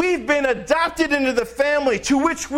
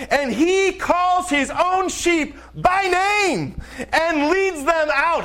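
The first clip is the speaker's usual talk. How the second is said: rising exclamation; 4 semitones higher, slower than usual. Real, not acted. Preacher to congregation, excited about the shepherd calling his sheep. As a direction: pitch climbs, he calls his own sheep by name.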